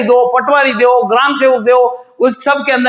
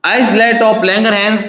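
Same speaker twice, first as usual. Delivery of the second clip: slow dictation; much slower than usual. Shown as a demonstration. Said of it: "teacher repeats term, very slow".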